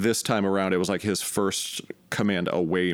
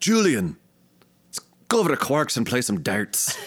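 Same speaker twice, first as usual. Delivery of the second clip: put-on character voice slipping toward a Scottish accent; 4 semitones higher than usual. Asked to do an impression, doing a Miles O'Brien voice. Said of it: "a pretty decent Miles".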